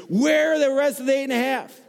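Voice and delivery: high, loud mock demand; teasing call-out. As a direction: call out the missing ones playfully. Teasing audience for missing thanks.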